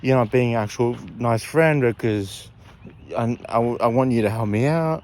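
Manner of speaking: a touch of whiny frustration; retold anger. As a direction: replay an angry demand, only half heated. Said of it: "I was getting angry".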